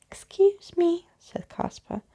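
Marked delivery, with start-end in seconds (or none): 0.1-1.1 interrupting. Acted. Caspar interrupting again.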